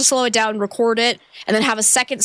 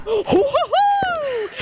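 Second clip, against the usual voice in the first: startled gasp. Real, not acted. Ghost appears.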